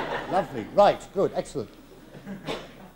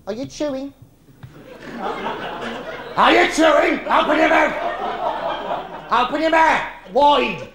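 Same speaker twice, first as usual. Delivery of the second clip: high, loud mock shouting; angry headmaster; 7 semitones higher, 4 dB louder, slower than usual. Headmaster to chewing girl, loud mock shouting.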